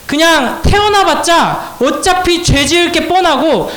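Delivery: high, slow emphatic preaching; preacher building point upon point; impassioned preaching. Real, not acted. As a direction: drive each phrase home from the pulpit, pitched high. Preaching at full force.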